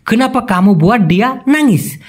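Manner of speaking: very slow, each Malay word spaced out; slow clear Malay. Shown as a demonstration. Teacher to Bengali learners, very slow careful Malay. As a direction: spell the phrase out by ear for learners. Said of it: "মানে তুমি যে এমনটা করলা কেন".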